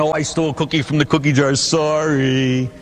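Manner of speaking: quick, careless little sorry; mock casual sorry; flippant apology. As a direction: toss off the confession lightly. Mocking trivial sin confession.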